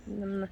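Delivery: blown kiss smack; soft kiss sound to viewers; air kiss. Real, not acted.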